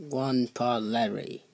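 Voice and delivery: muffled as if through a wall. Acted. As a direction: speak from behind a closed door. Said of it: "Can you actually speak up?".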